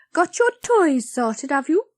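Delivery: talking through crumbs; mouth full. A narrator's reading. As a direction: speak with a mouthful of tart. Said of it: "thickly through a mouthful of crumbs".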